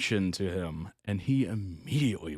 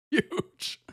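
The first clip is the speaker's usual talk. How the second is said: laughing amazement. Real, not acted. Laughing repeat of huge.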